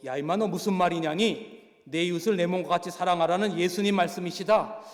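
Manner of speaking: gruff mock scolding. Go Jae-bong scolds the inmate.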